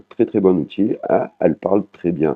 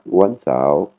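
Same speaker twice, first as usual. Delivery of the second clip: Wansao slowly, on an even normal tone. Shown as a demonstration. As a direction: say Wansao slowly without a falling syllable. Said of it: "Intonation normale". (Wansao, lentement, intonation normale)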